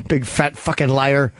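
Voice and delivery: low, slow name-calling; teasing insult. Acted. Low first take of the insult.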